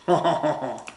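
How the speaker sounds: hammed-up French "oh ho ho"; mock French laugh. Teacher owning up to the awful accent, mock French laugh. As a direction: chuckle like a caricature Frenchman. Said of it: "awful French accent".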